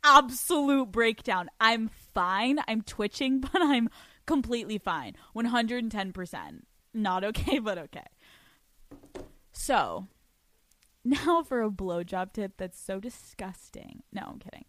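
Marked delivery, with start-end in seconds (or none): 0.0-1.5 higher, louder, slightly incredulous therapist; mock therapist voice. Therapist questioning Alex about this week's episode, mock concerned. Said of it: "My therapist is gonna be like". 14.1-14.6 a sly whispered take-back; whispered aside. Real, not acted. Host takes back her gross joke, whispering.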